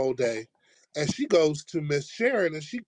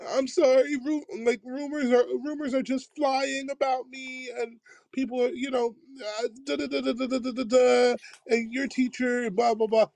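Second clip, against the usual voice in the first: much higher squeaky mock-frantic voice; mocking Miss Sharon; 9 semitones higher than usual. Miss Sharon babbling excuses to narrator in hallway, squeaky high mock voice. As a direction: lampoon her, pitched way up and flustered.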